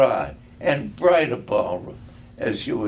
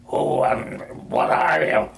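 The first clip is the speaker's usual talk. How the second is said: demanding. A narrator's reading. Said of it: "Scrooge demanded".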